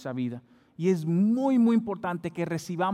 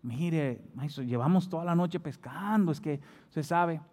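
hesitant, polite protest to a teacher; respectful reluctance; 3 dB quieter than usual. Acted. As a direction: object gently, holding back out of respect. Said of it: "por no faltar el respeto a Jesús". (protesta respetuosa y contenida)

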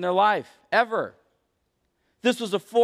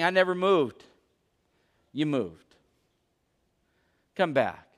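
gentle appeal; 5 semitones lower than usual. Acted. God speaks to those who ran, low and tender.

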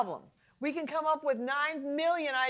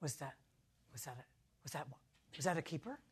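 much softer, lower, fast tiny voice; timid asking; 11 semitones lower, 18 dB quieter, faster than usual. Retold or imitated. Wife asking husband about her idea, meek and hushed. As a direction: ask meekly, afraid to break the hush. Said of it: "And I go".

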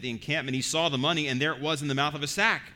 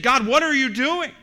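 higher and louder, an outcry of alarm; alarmed cry to God; 9 semitones higher, 9 dB louder than usual. Retold or imitated. Frightened brothers crying out to God in alarm. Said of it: "They said".

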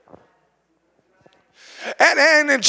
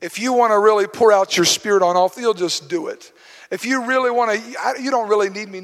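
mock passive prayer, much softer and lower; lazy prayer; 3 semitones lower, 4 dB quieter than usual. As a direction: imitate a half-hearted excuse to God. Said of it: "we like to push it off on God and say".

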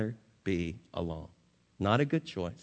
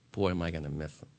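tearful widow; 5 semitones lower, 5 dB quieter, faster than usual. Retold or imitated. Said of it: "tears rolling down her cheeks".

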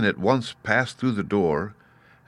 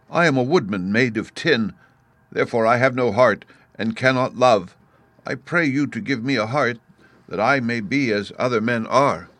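higher, earnest plea; pleading Tin Woodman; 4 semitones higher than usual. Acted. Tin Woodman begging the beast for a heart, higher. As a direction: beg with a raised voice. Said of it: "answered the Woodman".

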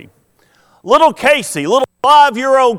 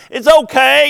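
lightly voiced three-year-old, higher and brighter; little sister comforting; 6 semitones higher, 4 dB louder than usual. Preacher voicing a toddler comforting her sister. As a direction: comfort your big sister like a small child. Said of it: "she hugs her and says".

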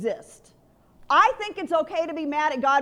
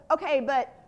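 struggling with God; 5 dB louder than usual. Retold or imitated. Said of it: "I really struggled with this whole".

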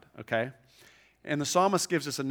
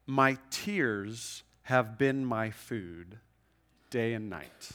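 slow scripture reading; 2 semitones lower, much slower than usual. Acted. Reading psalm verse slowly.

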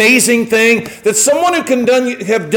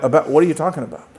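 baffled; 7 semitones lower, 5 dB quieter, much faster than usual. Retold or imitated. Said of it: "I'm like".

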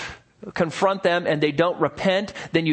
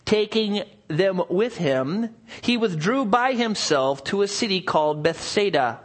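measured Bible reading aloud; scripture reading. Acted. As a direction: read the passage with calm weight. Scripture reading at sermon start.

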